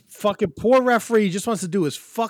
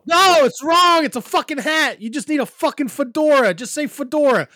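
exasperated rant; 9 semitones higher, 5 dB louder than usual. Real, not acted. Correcting co-host on the hat's name, exasperated shouting. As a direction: protest it in comic outrage.

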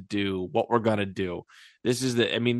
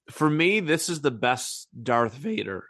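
voice cracking; 4 semitones higher, slower than usual. Real, not acted. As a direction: voice cracks mid-sentence. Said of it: "My voice just cracked".

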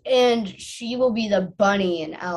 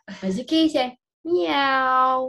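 put-on reading to a toddler; 2 semitones higher than usual. Shown as a demonstration. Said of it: "prompting toddler to meow".

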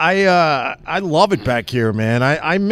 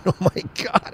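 soft whispered disbelief; 2 semitones higher, 5 dB quieter than usual. Real, not acted. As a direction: breathe it out under your breath. Creeped out by the pigeon story.

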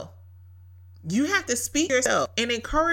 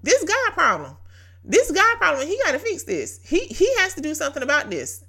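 higher, laughing, relieved burst of faith; excited declaration; 5 semitones higher than usual. Retold or imitated. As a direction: toss the problem to God with a laugh. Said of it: "and I said".

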